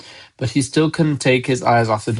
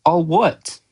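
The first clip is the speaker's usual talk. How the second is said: put-on higher, puzzled boy's question; 5 semitones higher than usual. A narrator's reading. Harry asking Hagrid what he means, puzzled. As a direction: ask it innocently, at ordinary volume. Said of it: "asked Harry".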